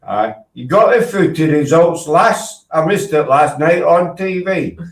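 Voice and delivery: slow, lazy mock Yorkshire voice; drawn out like a local at the corner shop; slow mock Yorkshire customer asking for the football results.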